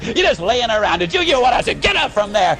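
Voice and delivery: mock angry farmer chewing out his cow; gruff scolding. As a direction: scold the cow to get up, impatient and hammed-up. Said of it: "give her a big kick and say".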